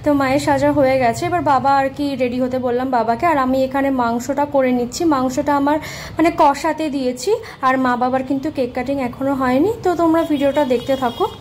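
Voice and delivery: loud, free and lively; normal loud voice again. Real, not acted. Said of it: "আস্তে আস্তে কথা বলছি কারণ". (আর লুকোনো নেই, জোরে খোলা গলায়)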